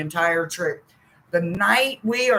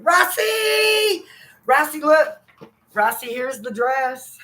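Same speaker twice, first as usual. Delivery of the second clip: high, loud call across the room; calling out to Rossi, high and loud; 9 semitones higher, 3 dB louder, slower than usual. Real, not acted. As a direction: shout the name to get attention.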